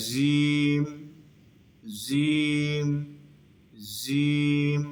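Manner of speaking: জিম with an English Z, "zeem"; mispronounced Z sound. Shown as a demonstration. Teacher showing students a common error, জিম said with a Z. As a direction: say জিম as a drawn-out buzzing "zeeem". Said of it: "ইংলিশের যে জেড হরফ".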